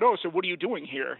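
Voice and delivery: mildly accusing question; retold accusatory tone. Police questioning the teacher at the parking lot, mildly accusatory. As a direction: imitate a suspicious officer, lightly. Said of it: "in a pretty accusatory tone".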